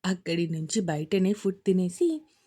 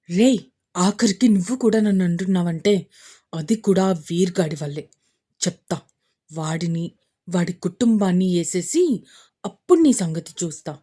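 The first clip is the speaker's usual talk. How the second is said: angry; 4 semitones lower, 4 dB louder than usual. Acted. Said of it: "Ashok కోపంగా".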